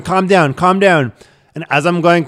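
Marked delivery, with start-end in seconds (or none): 0.0-1.1 calming plea. Retold or imitated. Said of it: "literally just going".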